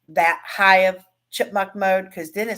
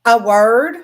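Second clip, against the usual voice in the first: mock innocent reply; 4 semitones higher, 10 dB louder than usual. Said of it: "And I'm like".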